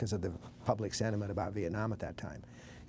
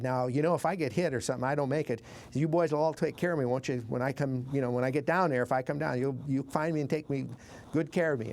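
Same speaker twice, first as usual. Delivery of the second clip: retold Southern pilot, pitched up; lightly attempted Southern drawl, raised voice; 4 semitones higher than usual. Pilot radioing the boys to find him, light Southern drawl. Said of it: "in his Southern drawl".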